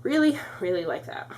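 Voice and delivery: breathless, quick phrases; out of breath. Real, not acted. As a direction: talk while short of breath. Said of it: "so out of breath".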